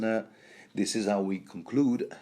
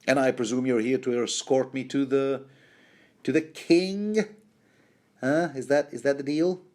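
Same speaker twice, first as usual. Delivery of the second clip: raised pitch, questioning lilt climbing on "king"; expectant Davos; 5 semitones higher than usual. Acted. Davos asking to be escorted to the king, expectant. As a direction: ask it with hammed-up hopefulness. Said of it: "Me, me, Davos Seaworth".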